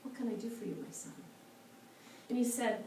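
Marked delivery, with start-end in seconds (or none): 0.0-1.1 gently smiling, softened voice; kindly, quiet welcome from a wise monk; sweet monk. Acted. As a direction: speak tenderly, as to a son. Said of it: "the sweet monk smiles and says".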